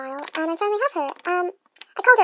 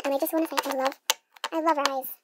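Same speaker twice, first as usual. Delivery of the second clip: losing voice; 3 dB quieter than usual. Real, not acted. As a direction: voice giving out, strained. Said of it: "I'm losing my voice".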